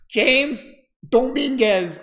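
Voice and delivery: slow drawn-out Roger impression. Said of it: "he goes".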